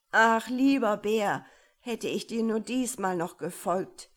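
lauter, reumütiger Klageruf; reuiger Ruf. Acted. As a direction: es aus der Grube bereuen. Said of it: "rief er". (klagend rufen)

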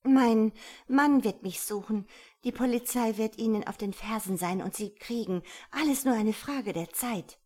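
loud, high, urgent warning; agitated threat. A narrator's reading. Woman warns her captor about police, agitated.

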